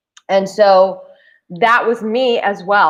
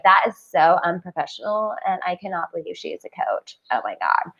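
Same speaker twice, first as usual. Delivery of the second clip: disapproving viewer; 4 semitones lower, 5 dB quieter than usual. Retold or imitated. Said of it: "audience who may watch this and go".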